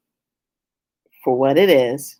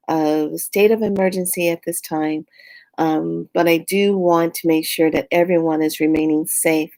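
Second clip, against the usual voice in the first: measured, reassuring governor's address; steady public safety announcement, meant to connect; caring governor. Shown as a demonstration. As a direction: speak to citizens as a concerned leader, lightly acted. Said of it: "Did you hear the tone of my voice".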